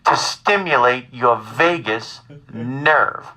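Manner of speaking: slow, measured mother impression; calmly insistent mother. Son imitates his worried mother, calmly insistent. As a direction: stretch each word out like a patient, insistent mother. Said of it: "my mother is very calmly telling me".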